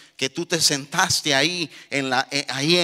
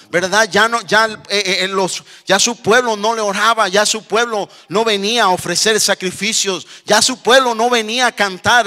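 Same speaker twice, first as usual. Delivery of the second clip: insistent, driving pulpit voice; fervent preaching; 7 semitones higher, 8 dB louder than usual. Real, not acted. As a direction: preach it with mounting urgency. Preaching with rising fervour.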